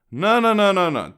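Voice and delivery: high, loud no, no, no, playfully dismissive; calm him down with false kindness; sarcastic soothing; mock reassuring.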